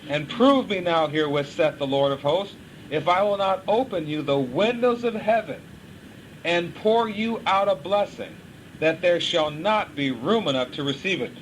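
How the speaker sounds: measured, solemn scripture read; preacher reading the Bible aloud. Acted. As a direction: read the verse out with weight.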